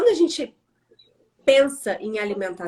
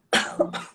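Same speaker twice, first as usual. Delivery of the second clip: sudden cough after swallowing a bug. Real, not acted. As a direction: cough it out, throat caught. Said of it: "Entrou um mosquito dentro da minha garganta". (tosse de quem engoliu um mosquito)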